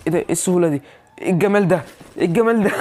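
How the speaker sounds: real gleeful disbelief; delighted marvelling. Real, not acted. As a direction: marvel at it, pitch climbing towards a laugh. Gamer delighted by his own shots.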